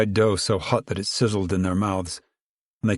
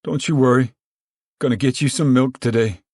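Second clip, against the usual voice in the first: raised, carrying call with a higher pitch; 4 semitones higher, 4 dB louder than usual. Acted. Tom keeps calling to Rose of Sharon, reassuring call. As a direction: keep calling over to her. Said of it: "he called to her".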